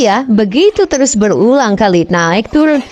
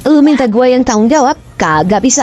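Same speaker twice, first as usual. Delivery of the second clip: higher, indignant scolding from the tree; angry outburst; 4 semitones higher than usual. Acted. Agus scolding Udin and Soimah from the tree, angry. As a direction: tell them off, half laughing. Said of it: "Agus turun dari pohon dan marah-marah".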